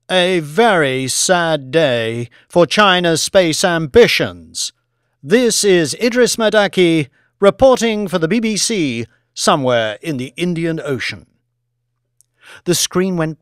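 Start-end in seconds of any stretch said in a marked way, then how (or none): 0.1-11.3 gentle, level reporter. Acted. Reporter signs off after the crash, gentle level tone. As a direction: deliver a grave on-air sign-off. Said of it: "He employed a gentle, level tone".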